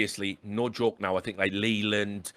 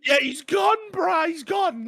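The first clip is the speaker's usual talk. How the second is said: mock Dog, gone. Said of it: "He goes".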